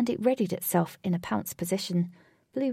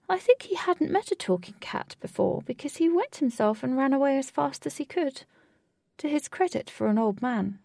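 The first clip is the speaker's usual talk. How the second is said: higher-pitched, animated cat storyteller; talking cat; 5 semitones higher, 3 dB louder than usual. A narrator's reading. Giant cat tells the children how Derek ran off, animated.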